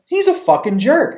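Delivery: "fucking" with a hard, punched F. Shown as a demonstration. Repeating the Panda description, hard F on "fucking". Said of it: "just using that hard F".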